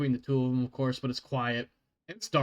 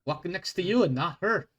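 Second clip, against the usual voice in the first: dwarf guard scolding; 4 semitones higher than usual. Acted.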